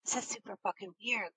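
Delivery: hushed discreet talk. Retold or imitated. Friends whispering about bailing on a creepy host, hushed. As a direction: keep it down so the host can't hear. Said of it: "trying to be, like, discreet".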